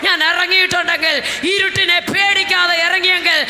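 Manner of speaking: fiery preaching. Acted. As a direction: preach it out to the congregation. Preaching, building refrain. (ആവേശത്തോടെ ഉച്ചത്തിലുള്ള പ്രസംഗം)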